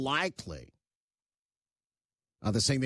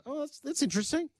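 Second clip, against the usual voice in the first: much higher, imitating everyone's interest; mock intrigued reaction; 12 semitones higher than usual. Everyone reacting to world leaders' gifts, mock intrigued. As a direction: play onlookers reacting to an odd gift. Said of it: "that everyone went".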